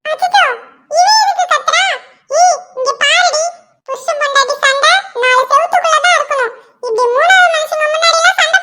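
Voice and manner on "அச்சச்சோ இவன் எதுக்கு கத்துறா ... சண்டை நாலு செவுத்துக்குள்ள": higher, laughing through the words; laughing at the husband's outburst; amused. Real, not acted. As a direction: chuckle at his yelling.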